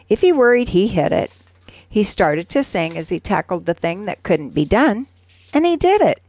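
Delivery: steady, measured poem reading with lifted line endings; poem recitation. Acted. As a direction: recite it like a proud motivational verse. Reads a poem aloud.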